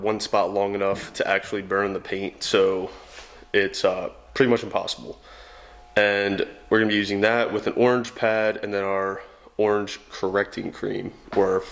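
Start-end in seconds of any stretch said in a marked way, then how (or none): 1.9-11.6 sore tongue making speech awkward; just bit tongue. Real, not acted. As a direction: talk around a bitten tongue. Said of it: "my tongue hurts".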